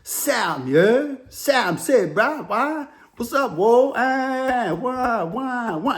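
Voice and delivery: lightly voiced white dude with a do-rag; imitating Do-Rag White. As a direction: mimic how Do-Rag White talked, lightly. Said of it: "he talked like this".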